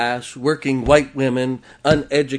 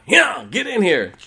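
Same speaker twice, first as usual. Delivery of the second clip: louder, higher firm call; calling the dog in; 7 semitones higher, 5 dB louder than usual. Retold or imitated. Man calling his dog in from the wind, firm loud call. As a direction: call her in over the wind.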